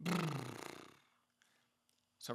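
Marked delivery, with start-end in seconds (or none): 0.0-0.4 soft relaxed lip buzz; lip trill. Shown as a demonstration. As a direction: let the lips flutter loosely. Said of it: "It helps you relax your face".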